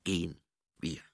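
low, menacing growl with long pauses. A narrator's reading. Angua threatening the baroness over the stone, low growl. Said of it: "knurrte Angua".

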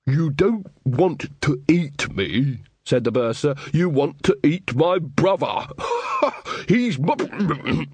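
high, giddy teasing; giggly bursar. Acted. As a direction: taunt with a giggle. Bursar gleeful taunt.

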